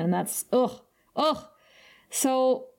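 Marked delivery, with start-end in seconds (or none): 0.5-1.4 short, pained "ugh"; pained groan. Real, not acted. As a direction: let out two short groans of dismay. Pained reaction to a heartbreaking scene.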